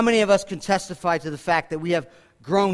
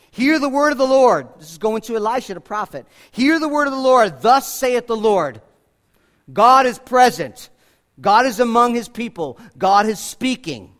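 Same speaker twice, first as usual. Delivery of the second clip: preaching proclamation; 4 dB louder than usual. Acted. Proclaims scripture at full force.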